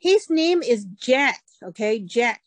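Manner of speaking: slow, insistent correction; a hint of an annoyed son setting mom straight; son complaining. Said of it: "这个儿子就抱怨了". (儿子抱怨纠正妈妈)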